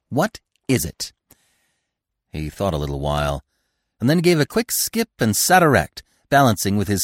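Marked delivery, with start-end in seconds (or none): 0.1-1.1 higher, separated words as if thinking; squirrel pondering. A narrator's reading. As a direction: echo the question musingly in squirrel voice. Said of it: "said the squirrel".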